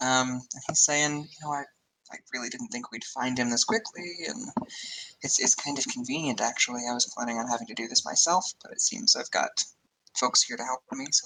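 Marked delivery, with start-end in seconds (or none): 1.5-11.1 quiet, hushed mutter under the breath. Eden, holding a locket, speaks to the group, quietly talking. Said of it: "Eden is just sort of quietly talking".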